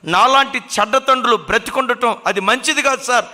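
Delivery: mildly acted guilt rising into begging for death; mock sobbing plea. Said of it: "అని ఏడుస్తున్నాడట".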